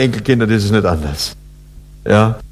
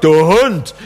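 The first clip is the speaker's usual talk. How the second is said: insulting; 5 semitones higher than usual. Shown as a demonstration. Preacher demonstrates the Bavarian insult to the congregation, scornful. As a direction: spit out Du Hund as a cutting insult, a bit higher and sharper. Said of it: "dann ist eine furchtbare Beleidigung".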